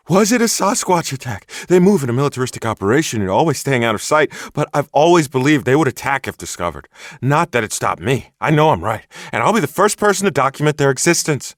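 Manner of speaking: high, loud, indignant enthusiast voice; a worked-up crank laying down his proof; excitable Bigfoot hunter. Acted. Bigfoot hunter warns the sheriff he saw everything, high indignant enthusiast. Hunter grows more animated.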